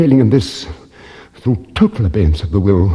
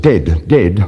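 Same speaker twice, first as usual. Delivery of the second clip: hideous dead voice; 3 semitones lower than usual. Acted. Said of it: "absolutely bursting from the tongue".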